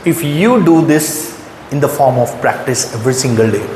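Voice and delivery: usual speaking voice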